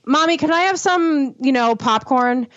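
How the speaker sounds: put-on high, sweet child's voice asking for popcorn; little son asking. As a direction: imitate a small boy begging mom. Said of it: "he'll be like".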